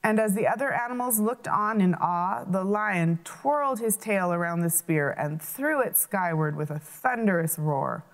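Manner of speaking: lively read-aloud storytelling; animated children's storyteller; story narration. A narrator's reading. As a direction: tell the fable to children with voices. Reads folk tale aloud.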